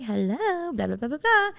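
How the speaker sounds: high, soft singsong hostess greeting; sweet hostess. Retold or imitated. Hostess answering the restaurant phone, sweet imitation. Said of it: "the sweet hostess lady picks up".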